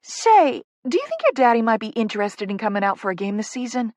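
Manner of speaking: angle sweetly for a favour; wheedling Southern publicist. Acted.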